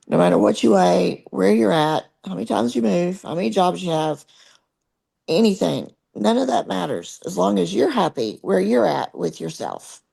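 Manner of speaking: hoarse, fading voice; losing voice. Real, not acted. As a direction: push through a voice that's going out. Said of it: "my voice is going out on me".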